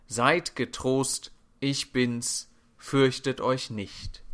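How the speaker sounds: slow, measured words of comfort; calm reassurance. Acted. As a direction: reassure the frightened, unhurried. Jesus's comforting words repeated. (langsam und beruhigend)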